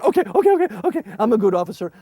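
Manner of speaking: high loud placating okays; conceding loudly. Retold or imitated. Leader giving in to screaming kids, loud high. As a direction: back off fast to calm them.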